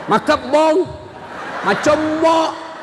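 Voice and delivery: mock nagging wife. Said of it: "Jangan sampai kita sudah malas".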